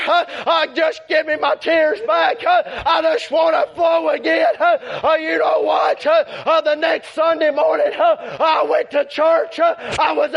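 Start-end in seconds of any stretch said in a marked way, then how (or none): 0.7-4.5 pleading prayer. Retold or imitated. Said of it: "I told the Lord".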